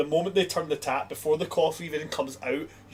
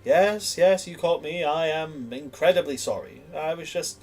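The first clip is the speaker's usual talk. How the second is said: caught-out apology; 3 semitones higher than usual. Acted. Patron caught casting a spell on people, apologetic. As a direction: own up quickly with hands raised. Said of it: "put their hands up and go".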